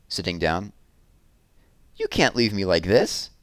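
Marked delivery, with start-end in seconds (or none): 2.0-3.3 a mild, understated wail with a rising end; lightly voiced mock wail from a trapped bear. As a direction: plead with a hint of a wail. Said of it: "wailed Barnaby".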